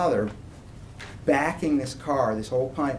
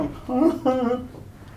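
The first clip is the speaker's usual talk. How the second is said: mock sobbing; 10 semitones higher than usual. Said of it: "I was devastated".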